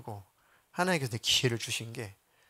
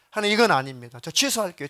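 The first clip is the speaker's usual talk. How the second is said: loud, higher pleading cry to God; desperate crying out; 3 semitones higher, 5 dB louder than usual. Retold or imitated. Dying girl cries out to God, desperate loud plea. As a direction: plead as if begging for your life. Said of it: "막 소리소리 지르는데 목소리는 안 나오는데 마음속에서 막 울부짖어".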